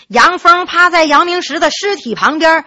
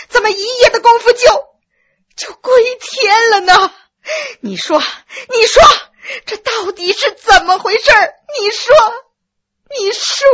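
high, loud sobbing accusation; crying and shouting; 7 semitones higher, 3 dB louder than usual. A narrator's reading. Widow accusing the doctor, sobbing shout. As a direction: hurl it at him through tears. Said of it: "杨夫人不顾一切地喊着".

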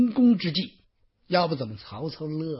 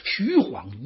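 ordinary delivery, nothing marked

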